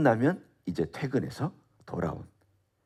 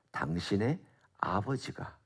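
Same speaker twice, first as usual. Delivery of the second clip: 당신의 hushed and stressed, slow; slower than usual. Shown as a demonstration. Preacher points out to listeners whose father he is, 당신의 stressed. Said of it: "강조하고 있는 메시지가 뭐냐면".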